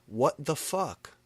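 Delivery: high, slow, outraged; angry demand. A narrator's reading. James angry at the mistake, slow outraged demand. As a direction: demand an answer angrily.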